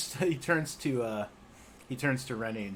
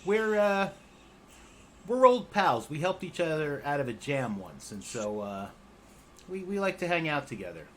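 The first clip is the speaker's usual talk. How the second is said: higher, louder chipper goblin voice, easing down; cheerful goblin vouching for his pal; goblin Rennie; 9 semitones higher, 5 dB louder than usual. Acted. Rennie explains his friendship to the party, chipper and high.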